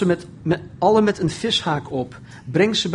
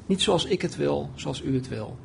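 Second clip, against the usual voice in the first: soft, falling surrender; quiet submission; 5 dB quieter than usual. Acted. Jesus yielding to the Father's will, quietly submissive. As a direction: let the plea drop away into hushed acceptance.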